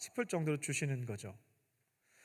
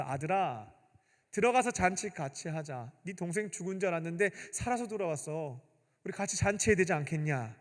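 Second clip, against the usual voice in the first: coaxing father; 4 dB quieter than usual. Retold or imitated. Father gently coaxing his eldest son to join the feast. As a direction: soothe him back inside. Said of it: "잘 달래면서".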